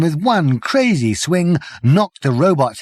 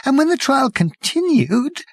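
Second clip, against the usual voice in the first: hoarse whisper; 6 semitones higher than usual. Acted. Journalist voice continues.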